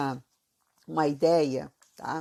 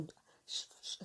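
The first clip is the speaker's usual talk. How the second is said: Floripa hiss; 17 dB quieter than usual. Shown as a demonstration. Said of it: "Que eles arrastam".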